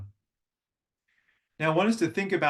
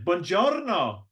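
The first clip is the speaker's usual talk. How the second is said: "Buongiorno" rising then falling, slow; 5 semitones higher, slower than usual. Shown as a demonstration. Italian greeting said with up-down tune. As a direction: swing "Buongiorno" up and down. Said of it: "It goes up and down".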